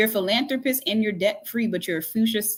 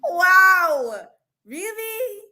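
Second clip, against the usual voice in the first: laughing cry; 9 semitones higher, 5 dB louder, much slower than usual. Real, not acted. Crying laughter, high pitch.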